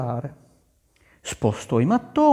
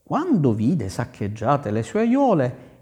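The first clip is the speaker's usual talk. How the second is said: usual speaking voice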